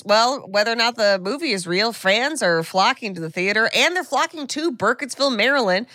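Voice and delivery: lightly put-on reporter voice; a hint of a reporter reading a segment; Sandy Kenyon. Host reads a quote about fans flocking to town, lightly put-on reporter voice. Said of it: "Was that Sandy Kenyon's voice".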